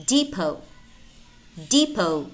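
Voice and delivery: depot as "dee-po"; silent T. Shown as a demonstration. Teacher models silent letters for learners, silent T in depot. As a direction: end depot on the O, no T. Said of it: "but it's not pronounced".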